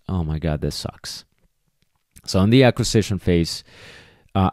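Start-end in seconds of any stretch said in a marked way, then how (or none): 0.1-1.2 dismayed dog. Retold or imitated. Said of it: "or the dog goes".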